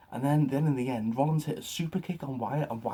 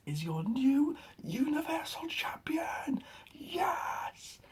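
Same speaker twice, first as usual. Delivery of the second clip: awed whisper; 13 semitones higher, much slower than usual. Real, not acted. Celebrating the win.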